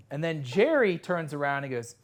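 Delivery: normal talking voice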